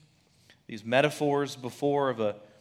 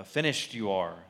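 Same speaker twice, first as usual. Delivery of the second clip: 1 Yoda voice; 4 semitones lower, 3 dB quieter than usual. Retold or imitated. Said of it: "you know, Yoda talking".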